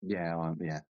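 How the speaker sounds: hammed-up sick, feeble voice; man flu. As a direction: play the dying invalid with man flu. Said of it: "I've got man flu".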